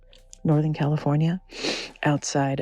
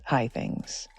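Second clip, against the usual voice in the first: unvoiced hushed words; whispering a firm refusal; 3 semitones lower, 5 dB quieter than usual. Real, not acted. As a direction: drop to a breath-only whisper. Whispering among the trees.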